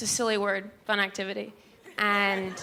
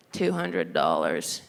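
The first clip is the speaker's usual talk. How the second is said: much lower, slow deadpan clerk; imitating a dull store clerk; slower than usual. Clerk quoting the price to mom, low and slow.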